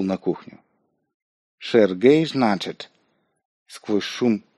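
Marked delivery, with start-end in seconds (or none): 1.6-2.9 lisping, mocking voice; slushy lisp. A narrator's reading. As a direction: lisp the name with a sneer. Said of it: "я отчётливо услышал шепелявый голос".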